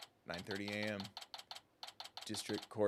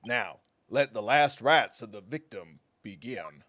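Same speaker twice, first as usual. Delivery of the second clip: prosecutor voice; 2 semitones lower, 3 dB louder than usual. Acted. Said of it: "prosecutor voice".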